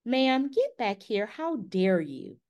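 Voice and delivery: a pitch-jumping mock telling-off, ma'am; mock scolding. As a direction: pretend to scold a kid from the car window. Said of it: "this close to rolling down my window".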